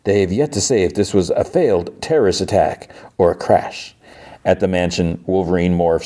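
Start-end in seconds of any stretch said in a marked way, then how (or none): 0.0-3.9 lightly voiced news reporter with punched key words; a hint of a TV reporter's emphatic delivery. Reporter relaying the Pentagon's word on a plane crash, lightly imitated newscast. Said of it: "So the reporter's like".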